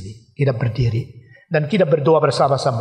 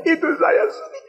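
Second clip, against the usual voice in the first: sharply higher, pained cry of sorrow; a mother crying out over her wayward son; mother's lament. Retold or imitated. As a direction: let the mother's grief break upward.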